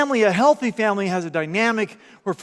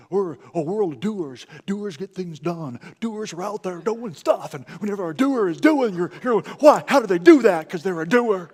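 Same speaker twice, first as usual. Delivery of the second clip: mock TV commercial; 4 dB louder than usual. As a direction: playfully imitate a TV spot. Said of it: "I did a terrible facsimile of it".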